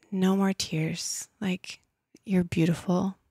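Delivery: breathy whispered reassurance to herself. Retold or imitated. Telling herself in the bathroom mirror, a soft whisper. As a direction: whisper it gently, like calming yourself. Taking a deep breath, self-talk.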